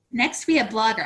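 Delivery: breathless; out of breath. Real, not acted. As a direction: speak short of breath. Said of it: "I feel like I'm almost out of breath".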